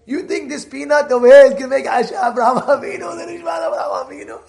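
mocking taunt. Heckler mocks the man's peanuts to the rabbi. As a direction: ridicule the peanut beracha, rising to a fast shout. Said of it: "he's taking the peanut and he's saying".

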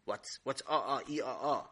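low mumbled uh-uhs; boy who won't talk after mapil; stammering boy. Acted. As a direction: refuse to speak, just grunt. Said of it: "And Sammy said".

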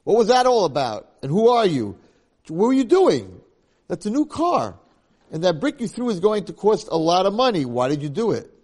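put-on loud, high, furious yell at the boy; angry shout. Driver shouting at the boy over his new Jaguar, furious yell. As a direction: bellow it at the kid who threw the brick.

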